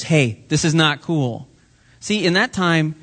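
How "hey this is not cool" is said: slow, deliberate lightly voiced Jesus; slow gentle rebuke. Jesus telling the crowd, slow mild rebuke. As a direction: spell it out slowly to the crowd. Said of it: "he was saying to the others".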